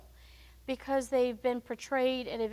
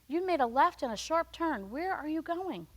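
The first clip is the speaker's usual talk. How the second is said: gentle prompting Lord; 5 semitones higher than usual. Retold or imitated. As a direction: ask patiently where he's headed. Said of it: "the Lord prompts us many times".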